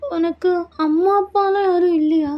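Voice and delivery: high-pitched wary question; questioning bride. Acted. Bride asking husband about his parents, puzzled.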